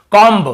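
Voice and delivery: कॉम्ब said with the final b clearly sounded, the common mistake; wrong b sounded. Shown as a demonstration. Teacher showing students their wrong reading, b sounded. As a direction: pronounce कॉम्ब ending on a clear b. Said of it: "ऐसे पढ़ते हैं ना".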